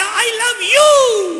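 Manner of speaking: high, loud, long-held shout of love; child shouting love to the jungle; joyful shout. Acted. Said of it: "जोर से चिल्लाया".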